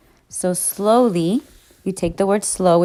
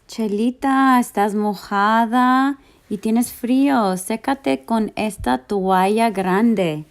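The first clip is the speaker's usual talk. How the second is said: put-on sweet talk to a girl; 3 semitones higher than usual. Reads example to a girl.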